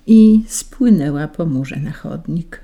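usual speaking voice

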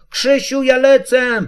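high little squeal of excitement; very high, childlike call; squeaking. A narrator's reading. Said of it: "A potem jeszcze pisnęło".

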